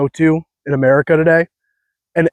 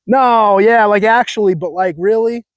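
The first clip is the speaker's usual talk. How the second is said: higher mock Cali voice; mock California bro, raised pitch; 3 semitones higher, slower than usual. Shown as a demonstration. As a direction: toss off "no, yeah" like a valley bro. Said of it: "It's like".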